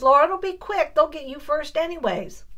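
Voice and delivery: hammed-up teasing mom voice. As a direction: mom ribbing her daughter at the back of the hiking line, mock teasing. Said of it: "she says".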